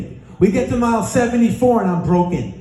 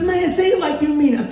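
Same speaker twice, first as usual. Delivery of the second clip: partner's urging; 4 semitones higher than usual. Retold or imitated. Partner urging the broken runner.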